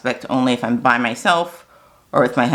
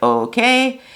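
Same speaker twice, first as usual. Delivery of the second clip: confused okay; 11 semitones higher than usual. Retold or imitated. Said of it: "she paused and sounded a little confused".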